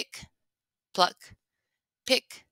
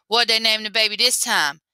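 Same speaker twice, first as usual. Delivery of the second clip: grumbled; 2 semitones higher, 4 dB louder than usual. Acted. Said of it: "he grumbled".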